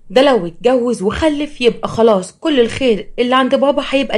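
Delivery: worked-up storybook sister; alarmed scheming sister. Acted. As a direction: object as if the inheritance is slipping away. Sister alarmed about the marriage.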